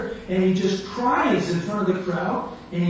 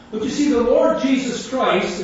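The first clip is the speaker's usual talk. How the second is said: raised, higher street-preacher proclamation; preaching testimony; 5 semitones higher, 6 dB louder than usual. Retold or imitated. Preacher testifying to his heckler, loud retold preaching. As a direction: proclaim it like an open-air preacher. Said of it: "he's preaching his testimony through this opportunity".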